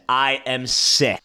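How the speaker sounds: slowed, drawn out; retelling a friend's complaint slowly; slow retold quote. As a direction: drag out each word. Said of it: "That is what he said".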